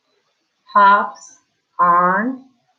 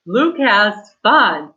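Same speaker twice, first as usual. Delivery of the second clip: excited; much slower than usual. Shown as a demonstration. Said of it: "So we say it excited".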